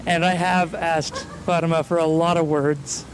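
breathless while climbing; out of breath. Real, not acted. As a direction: speak between quick breaths. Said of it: "I'm a little out of breath".

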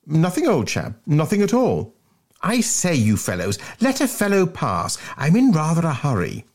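high-pitched protesting schoolboy; flustered schoolboy. Acted. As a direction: plead to get past in a high voice. Bunter voiced, blocked and hurrying.

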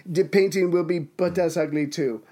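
a lightly put-on Italian accent, slipping as it goes; mock Italian painter, accent fading halfway; fake Italian accent. The painter answering the patron, in a half-lost mock Italian accent. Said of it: "I was going for Italian".

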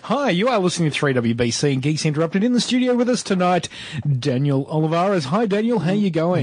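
high squeaky bug voice; cockroach voice. Acted. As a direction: pitch way up like a cockroach. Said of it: "I'm doing my cockroach voice".

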